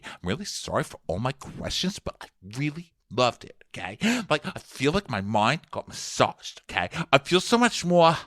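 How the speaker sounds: halting, lightly mimicked gushing; Ramona impression. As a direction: stop and start through gushing thanks. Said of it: "So Ramona's like".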